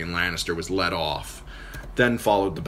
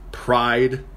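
snapped; 5 semitones higher, 4 dB louder than usual. Acted. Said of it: "Catelyn snapped".

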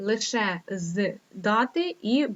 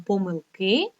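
помилки stressed on the final И; stress on last syllable; slower than usual. Shown as a demonstration. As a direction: lean on КИ in помилки. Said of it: "лише один наголос".

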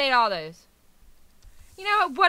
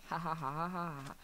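mock laugh; 8 semitones lower, 10 dB quieter than usual. Spelt laugh after boom, bam.

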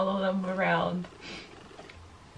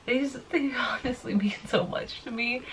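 hushed and choked up; almost whispering through the emotion; tearful whisper; 3 semitones higher, 6 dB quieter than usual. Real, not acted. Confessing to viewers what the band means, whispered.

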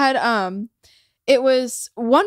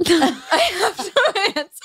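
laughing while quoting; 5 semitones higher, much slower than usual. Retold or imitated. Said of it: "and Daisy goes".

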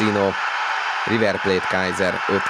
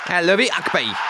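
excited shot call; 10 semitones higher than usual. Real, not acted. Shot and save commentary.

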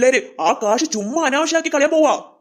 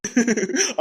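amused chuckle; 2 semitones higher than usual. Acted. Amused by the child's boast.

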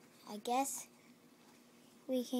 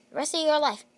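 villain threat; 5 semitones higher, 9 dB louder, faster than usual. Acted.

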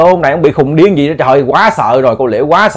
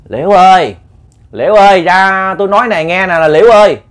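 lightly voiced neighbour calling her name; a hint of a ghost coaxing in a borrowed voice; ghost mimicking Chính; 2 semitones higher than usual. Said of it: "nói y chang cái giọng ông Chính luôn nha".

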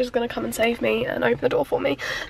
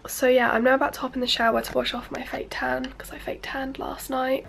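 whispering; 5 dB quieter than usual. Real, not acted. Whispered early morning.

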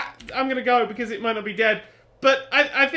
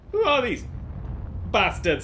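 burping mid-sentence. Real, not acted. Player asking about enemies, interrupted by a burp. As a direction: question broken by a burp. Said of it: "Sorry, I had to burp then".

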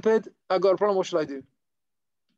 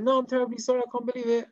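higher-pitched, mildly hammed-up apology; profuse apology; 6 semitones higher, faster than usual. Shamash apologizing to the man he soaked, profusely. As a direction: play at being terribly sorry.

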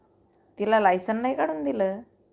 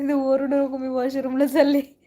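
louder imitation of the daughter's notice; raised-voice retelling; 3 semitones higher, 5 dB louder than usual. Mother retells her daughter saying not to yell, raised voice. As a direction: project the quote firmly.

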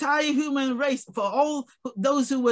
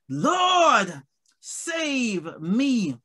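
crying out; much slower than usual. Acted. Preacher as Peter crying out to the Lord, drawn-out plea. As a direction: call out for rescue, stretching each word. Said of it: "He cried out to the only one".

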